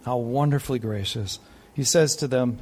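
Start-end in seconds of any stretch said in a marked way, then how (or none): 0.1-1.4 soft awe. Real, not acted.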